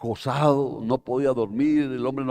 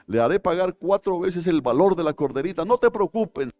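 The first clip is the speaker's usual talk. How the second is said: furious demand; 5 semitones higher, 3 dB louder than usual. Acted. David furious, demanding the culprit.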